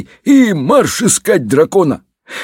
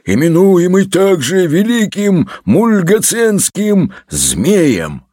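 boastful dragon head; 3 semitones higher, slower than usual. Acted. Third dragon head adds a title. (торжественно и протяжно, с низким концом)

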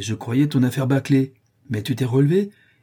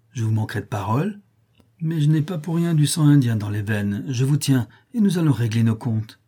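vengeful threat; 2 semitones higher than usual. Acted. Joe threatening the doctor.

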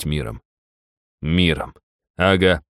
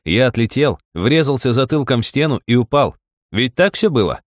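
accusation; 7 semitones higher than usual. A narrator's reading. Accusing Rob before guard.

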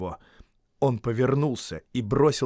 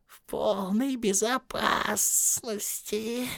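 much higher, slow creepy muttering; Gollum muttering to himself; 11 semitones higher, 3 dB quieter, much slower than usual. Acted. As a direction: hiss it to yourself like a hungry creature. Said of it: "шептал он себе под нос".

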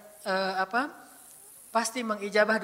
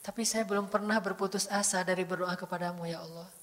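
tender confiding prayer; 6 dB quieter than usual. Acted. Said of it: "Ini namanya curhat".

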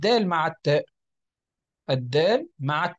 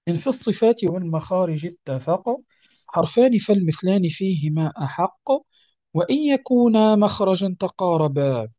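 measured reciting of the verses; poem recitation. Acted. Teacher reads the poem aloud to students. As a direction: chant the lines evenly.

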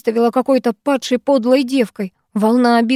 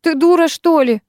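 flaring up; 6 semitones higher than usual. Acted. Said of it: "Я тут же взвилась".

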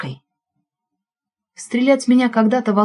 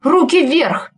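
firm command; 7 semitones higher, much slower than usual. A narrator's reading. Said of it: "твёрдый женский голос".

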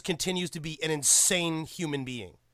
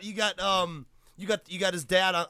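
ordinary delivery

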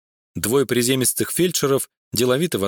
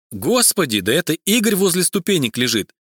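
horrified cry; 6 semitones higher than usual. A narrator's reading. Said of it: "закричала вдруг в ужасе переводчица".

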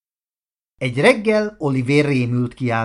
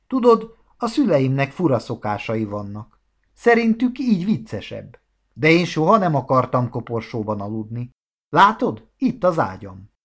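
mildly flustered explanation; embarrassed. Acted. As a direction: explain awkwardly, pitch jumping up on some phrases. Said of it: "Oliver zavartan válaszolt". (kissé zavart magyarázkodás)

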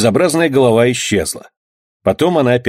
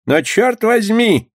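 slow exclamation, pitched much higher; exclaiming; 12 semitones higher, much slower than usual. Acted. The unhappy skipper cries out at the bandits. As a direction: cry out in dismay, slowly. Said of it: "воскликнул несчастный шкипер".

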